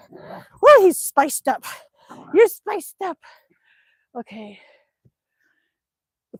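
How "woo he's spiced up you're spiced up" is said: high, loud whoop at the dog; sudden excited cheer. Real, not acted. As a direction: let out a gleeful woo.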